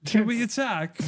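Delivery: high, eager British soldier asking leave; put-on keen colonial voice; mock British underling. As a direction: pipe up high to the Prime Minister. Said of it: "'cause they were like".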